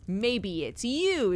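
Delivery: slow Cockney keeper snapping back at the stranger; a hint of a cheeky dig, drawn out on you; keeper's retort.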